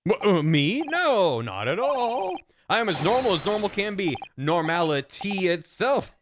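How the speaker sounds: flustered denial. Acted.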